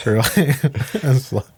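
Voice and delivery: ordinary talk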